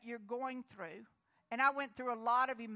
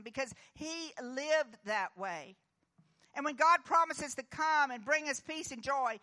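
rising, louder preaching voice; 3 dB louder than usual. Acted. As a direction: preach it out to the congregation with force. Pastor preaching to congregation.

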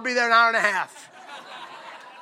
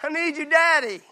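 crying out daddy. Acted. Preacher voicing a child crying out to God as daddy. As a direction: wail it like a frightened child. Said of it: "instead of".

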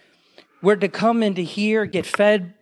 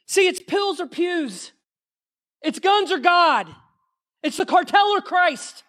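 preached slogan; 7 semitones higher than usual. Real, not acted.

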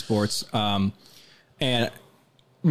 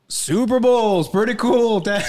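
higher and louder, laughing through it; mock kid tease; 11 semitones higher, 5 dB louder, slower than usual. Host plays the son teasing his dad, laughing and higher.

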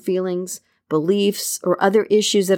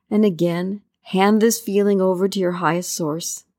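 guided meditation. Acted. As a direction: ease the listener into calm with long pauses.

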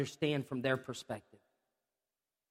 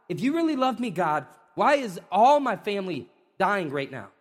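rising, louder pleading why; anguished cry to God; 3 semitones higher, 4 dB louder than usual. Acted. Preacher voicing a hurting person's cry.

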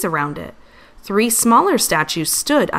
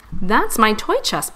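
proud exclamation; 3 semitones higher than usual. Acted. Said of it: "Pip exclaimed".

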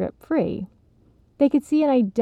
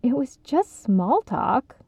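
slow, sorry tone; apologetic; 4 semitones higher, slower than usual. Acted. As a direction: soften it, apologize. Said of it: "apologetic tone".

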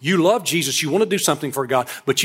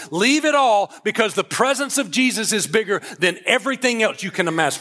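raised pitch, rolling sermon build; preaching exhortation; 4 semitones higher than usual. Real, not acted. Preacher urging listeners to leave the boat, exhorting. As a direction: pile up the list insistently, pitched high.

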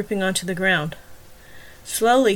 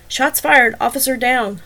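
louder, higher urgent call; barked alarm; 4 semitones higher, 6 dB louder than usual. Acted. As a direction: report it into the radio, fast. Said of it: "barked into the radio".

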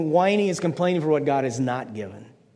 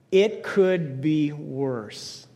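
slow, drawn-out phrase; much slower than usual. Shown as a demonstration. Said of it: "Repeat those words with me".

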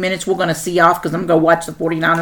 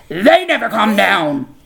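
high, drawn-out holler; playful slow shout; sudden yell; 4 semitones higher, 3 dB louder, slower than usual. Pretend. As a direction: burst out from a whisper into a yell. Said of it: "You just like yelling into this microphone".

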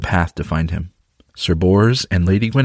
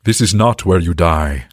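booming voice from the sky; 2 semitones lower than usual. Acted. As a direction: boom it like a god from the sky. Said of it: "A voice boomed from the sky".

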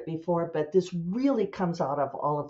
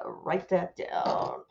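writing while talking; much slower than usual. Real, not acted. Author noting an idea for her novel, drawn-out murmur to self. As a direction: stretch it out as you jot it down. Speaking while jotting a note.

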